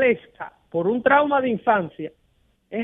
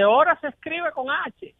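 nitpicking correction; 5 semitones higher than usual. Retold or imitated. Acts out a nitpicking reply to letter.

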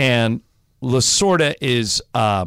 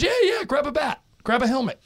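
higher, breezy invitation; mock friendly Lasorda; 13 semitones higher than usual. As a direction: wave him in casually. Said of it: "Tommy goes".

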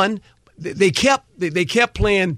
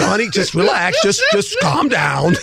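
calming wife; slower than usual. Retold or imitated. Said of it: "I went".

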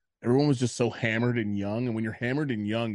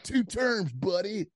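high-pitched mock yell; retold scream; 9 semitones higher, slower than usual. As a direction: imitate the driver's indignant cry. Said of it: "he was, like, screaming at me".

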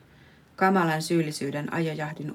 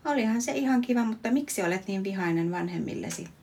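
higher, quicker mock granny voice; a granny answering the poet, mock chirpy and higher; old granny reply; 4 semitones higher than usual. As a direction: imitate a chirpy old lady, higher and faster. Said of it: "joku mummo korkeintaan vastaa".

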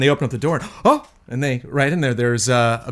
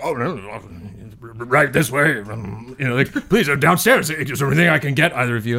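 bad fake British accent. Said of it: "weird, bad, fake British accent".

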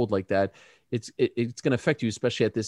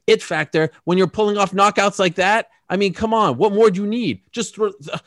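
pitched-up exasperated protest; incredulous; 8 semitones higher than usual. Real, not acted. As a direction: come on, what more could you want. Incredulous rant about knockouts.

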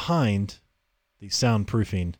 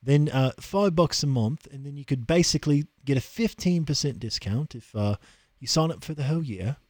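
put-on London accent; 2 semitones higher than usual. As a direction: sell it in a posh London accent. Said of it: "coming from an accent like that".

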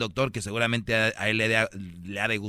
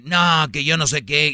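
put-on whiny girlfriend; 5 semitones higher, 7 dB louder than usual. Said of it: "forma de chantajear".

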